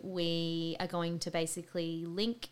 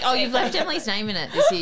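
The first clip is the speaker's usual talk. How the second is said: mock surprise; 6 semitones higher, 12 dB louder than usual. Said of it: "You'd be like".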